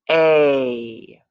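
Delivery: a long held vowel, turtle slow; stretched teaching sound. Shown as a demonstration. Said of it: "say some words like a turtle".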